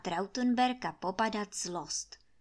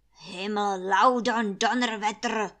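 cursing; 7 dB louder than usual. Acted. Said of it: "sakroval na každém schodě".

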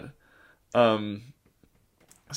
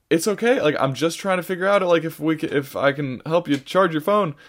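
higher-pitched placating voice; calm down an upset stranger, pitched up; retold reassurance; 4 semitones higher than usual. Soothing a screaming stranger, retold.

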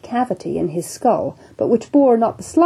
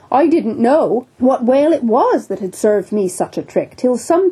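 bluff captain; 3 semitones higher than usual. Acted. Captain resumes his tale.

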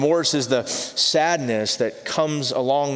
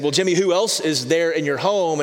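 a touch of mock impatience, a little higher; frustrated pastor; 5 semitones higher, 3 dB louder than usual. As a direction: press the child with mild exasperation. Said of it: "The pastor, growing frustrated".

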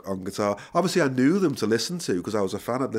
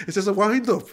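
laughing; 9 semitones higher, 3 dB louder than usual. Real, not acted. Laughing disbelief at the offer.

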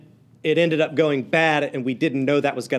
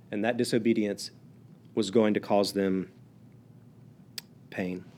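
solemn hush; 6 semitones lower, 6 dB quieter than usual. Acted. Sermon falls to solemn hush.

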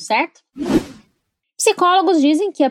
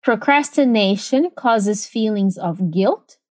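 slow, spaced-out teacher's model; measured demonstration in careful chunks; repeat-after-me model; 2 semitones lower, slower than usual. Shown as a demonstration. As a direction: give it slowly, pausing for learners to repeat. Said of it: "let's repeat it one more time".

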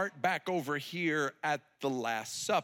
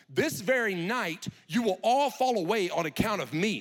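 grave warning; 5 dB louder than usual. Acted. Jesus' grave announcement at supper.

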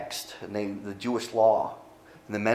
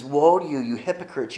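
"Woe" punched higher and louder, then "hypocrites" drops; 4 semitones higher, 3 dB louder than usual. Acted. Preacher voicing Jesus rebuking the leaders, louder woe. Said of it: "And he says".

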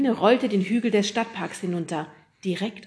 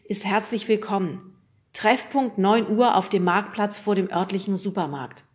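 emphatic newspaper read-aloud, raised volume; 3 semitones higher, 6 dB louder than usual. A narrator's reading. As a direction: read the article out loud to the group. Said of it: "nahm die Zeitung zur Hand und las vor". (laut aus der Zeitung vorgelesen)

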